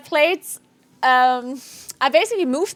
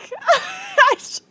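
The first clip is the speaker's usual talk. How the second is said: crying laugh; 14 semitones higher than usual. Real, not acted. Despairing after failed key.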